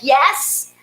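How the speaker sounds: put-on defensive edge; attitude. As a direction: answer the door with acted attitude. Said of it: "opened the door with this attitude".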